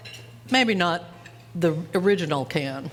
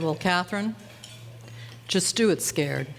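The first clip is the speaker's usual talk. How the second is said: retold fatherly advice; 5 dB quieter than usual. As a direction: imitate a father steadying his child. Father reassures scared daughter, retold.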